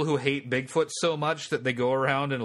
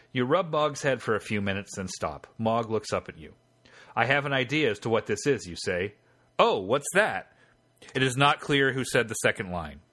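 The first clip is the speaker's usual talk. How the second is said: measured game-master narration; story narration; 3 semitones lower than usual. A narrator's reading. Game master reading the scene to the player, story narration. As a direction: read the adventure text out as story.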